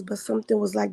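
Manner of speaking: ordinary talk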